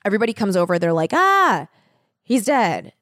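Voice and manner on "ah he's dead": alarmed cry. Retold or imitated. Group finds Mark's body.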